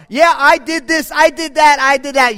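loud, high bragging; hammed-up braggart; mock boasting. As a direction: brag loudly about every deed.

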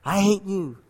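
soft, distant echo; cave echo. Acted. Cave returning the boy's hatred, soft echo. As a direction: hush it into a faraway echo. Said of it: "the cave echoed back".

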